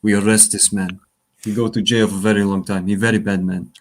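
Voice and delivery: mock Polish cop accent; broken English, Polish accent. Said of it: "you do a Polish accent that doesn't sound Russian".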